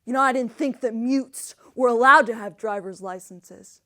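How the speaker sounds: mildly disdainful stranger's voice; disgusted. Acted. Man behind counter judging deaf customers, mildly disgusted. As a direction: sneer a little at the customers. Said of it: "disgust on his face".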